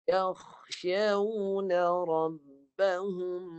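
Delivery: "يَخْشَوْنَ رَبَّهُمْ" with a thick kha and the mouth wide; recitation demo. Shown as a demonstration. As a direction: model reading for the pupil. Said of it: "pangkal lidah".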